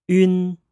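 "yun" said as one smooth syllable; Mandarin final yun. Shown as a demonstration. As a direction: model "yun" for learners. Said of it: "Let's repeat that".

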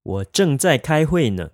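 slow and clear model sentence; slow practice repeat. Shown as a demonstration. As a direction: say it slowly for learners to copy. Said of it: "Let's practice saying that".

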